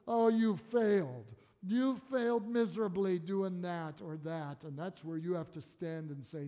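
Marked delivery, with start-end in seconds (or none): 0.1-4.6 loud, accusing voice of the tempter; condemning. Acted. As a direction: hurl it as an accusation, drawing out the first words. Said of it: "He always wants to condemn".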